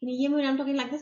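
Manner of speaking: fast, muddled, indistinct mumbled words. Showing what it means to mumble: mumbled, unclear words. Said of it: "I'm not saying the words correctly".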